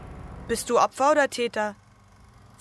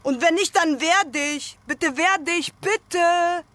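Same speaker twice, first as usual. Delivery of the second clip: louder, higher desperate plea; pleading cry; 7 semitones higher, 4 dB louder, slower than usual. Acted. Urging a passive partner, louder pleading cry. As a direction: beg them to fight back.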